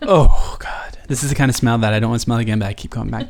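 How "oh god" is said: whispering disgust. Real, not acted. Sniffing a gross smell.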